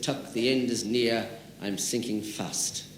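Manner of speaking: a dying outlaw's last breaths, quietly; lightly voiced failing hero; dying Robin Hood.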